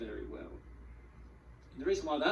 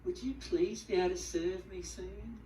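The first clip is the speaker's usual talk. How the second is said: fake sweet politeness; 4 semitones higher than usual. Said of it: "put a smile on my face and go".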